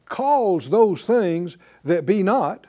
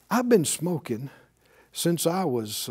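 quiet, lightly acted confession; mildly sheepish, subdued quote; 2 semitones lower, 6 dB quieter than usual. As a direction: imitate a man owning up softly. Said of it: "he came up kind of sheepishly".

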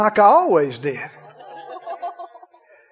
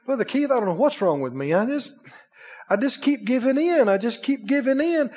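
tearful confession; 6 dB quieter than usual. Retold or imitated. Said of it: "Ministers look at me in tears".

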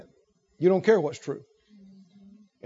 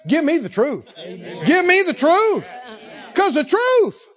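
fervent plea; 5 semitones higher than usual. Acted. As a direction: cry out for the light. Voicing the pleading believer.

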